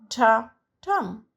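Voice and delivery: short light ta then a firm tum; iambic beat, weak then strong. Shown as a demonstration. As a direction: tap out the iamb, second beat heavier. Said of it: "unstressed syllable followed by a stressed syllable".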